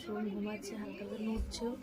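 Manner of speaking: speaking softly. Real, not acted. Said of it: "আর আমি একটু আস্তে আস্তেই কথা বলছি".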